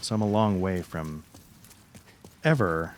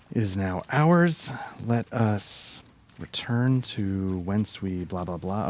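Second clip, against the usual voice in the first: mock grand proclamation; slower than usual. Mock grand speech after winning sword.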